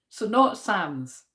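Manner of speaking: slow "Sam's" with a short flat "a"; avoiding Sam's. Shown as a demonstration. Vlogger checking which way not to say it, slow. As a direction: say "not Sam's" slowly, stressing Sam's. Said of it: "don't say it that way".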